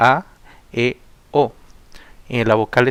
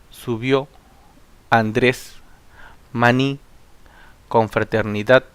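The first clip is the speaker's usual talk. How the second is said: "José, amistad, canción" one by one, weight on each final syllable; stress on last syllable; slower than usual. Shown as a demonstration. Teacher reciting agudas examples like "maní", stressing the last syllable. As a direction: land on the end of each word, as in "José", "canción", "amor". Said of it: "la mayor fuerza de voz está en la última sílaba".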